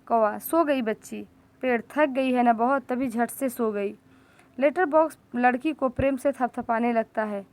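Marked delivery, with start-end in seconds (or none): 0.4-4.0 tender hush. Acted. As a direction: speak gently so she stays asleep. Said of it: "देखते हुए खड़े हैं प्यार से". (सोती बच्ची को देखते हुए, प्यार भरी धीमी आवाज़)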